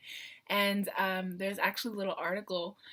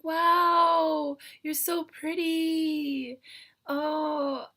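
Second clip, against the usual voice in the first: imitating fans; 9 semitones higher, 5 dB louder, much slower than usual. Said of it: "and they're like".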